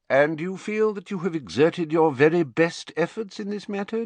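high, pointed questions with mounting emphasis; Dumbledore, disappointed questioning. A narrator's reading. Headmaster questions Harry's efforts to retrieve the memory, pointed disappointment.

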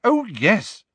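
very high, mocking agreement; shrill sarcastic outburst; hysterical sarcasm. A narrator's reading. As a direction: sneer it with rising hysteria. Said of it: "with a kind of hysterical sarcasm".

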